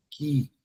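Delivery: "Químico" as "ki... mico", broken after the first syllable; silent U. Shown as a demonstration. Showing the class the digraph, "Químico" split with silent U. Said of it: "Você pronuncia assim".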